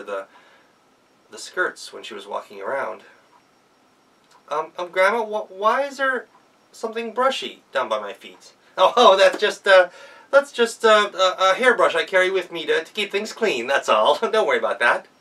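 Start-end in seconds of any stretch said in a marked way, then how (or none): 4.5-8.5 put-on hesitant child. Girl nervously questions the grandma. 8.8-15.1 high, loud stammering cover-up; a wolf bluffing fast, then a nervous laugh; wolf caught out, stalling with excuses; flustered fake grandma.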